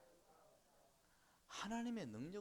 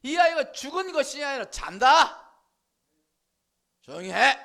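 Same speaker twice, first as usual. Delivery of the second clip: loud, much higher command; commanding shout; 10 semitones higher, 21 dB louder than usual. Acted. Jesus silencing the mourners at the house, loud command. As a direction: silence the crowd with full force. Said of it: "뭐 그런 말이겠지".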